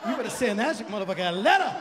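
loud hammed-up public outburst; angry brother yelling. Angry brother yelling at someone in public. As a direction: put on a show of outrage. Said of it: "He's like".

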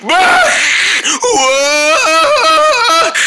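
hungry monster groans. Acted. Monster groans wanting flesh.

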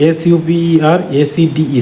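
slow letter-by-letter spelling; teacher slowly spelling a word. Shown as a demonstration.

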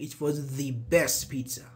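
"the" as a stressed "thee" before best; emphatic "thee best pizza"; emphasis on "the". Shown as a demonstration. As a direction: put the weight on THE, said "thee". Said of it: "I'm trying to emphasize".

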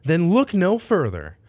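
cheesy commercial pitch; ad read. Acted. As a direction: sell it like a late-night ad. Mock advert read.

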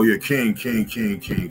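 ordinary talk, nothing marked

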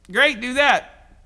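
stretched-out slow "Great, do that"; slow emphatic repeat. Retold or imitated. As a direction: lean on each word, slowly and loud. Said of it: "And Jesus basically says".

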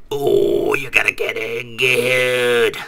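slow, strained monster villain voice; imperfect Cell. Acted. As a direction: drag it out like a throat-straining creature. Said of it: "if it's imperfect Cell, we're like".

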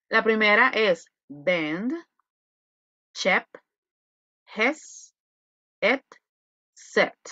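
"bend, chep, hes, et, set" each with a soft short E; teacher drilling "chep" and "set" slowly with a soft E; word list read slowly, one word at a time, soft E on each; soft E vowel. Shown as a demonstration. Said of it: "se pronuncia con una suave E".

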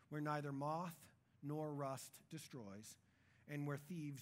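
low, measured Bible reading; Scripture reading. Acted. Preacher reading Jesus' words to the congregation, measured Scripture reading.

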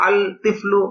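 আল তিফলু with the lam of আল sounded, the error; teacher showing the mistaken আল তিফলু; wrong pronunciation. Shown as a demonstration. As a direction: say আল তিফলু as al tiflu, keeping the l. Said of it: "গলত উচ্চারণ".

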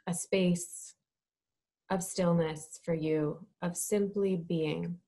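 measured, calm instruction with space to breathe; guided meditation. Real, not acted. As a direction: lead them gently into stillness, phrase by phrase.

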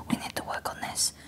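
hushed Spanish masseuse, slowing at the end; imitated Spanish accent. Spanish masseuse warning client about boyfriend, imitated Spanish accent. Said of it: "like, this beautiful accent".

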